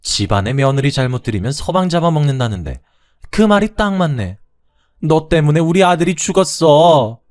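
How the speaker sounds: high, loud, bitter accusation; blaming mother-in-law. Acted. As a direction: spit the blame at her. Mother-in-law blames widowed daughter-in-law.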